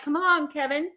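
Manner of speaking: lightly voiced nursery minder; leading a toddler. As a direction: coax him along like a small child. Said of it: "like, a small toddler".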